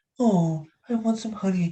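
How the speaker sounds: high cartoon bear voice. Showing that his impressions all sound the same, doing a Winnie the Pooh voice. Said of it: "the same with Winnie the Pooh".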